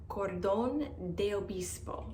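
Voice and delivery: careful Spanish accent on the name. Shown as a demonstration. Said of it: "pretty good Spanish accent".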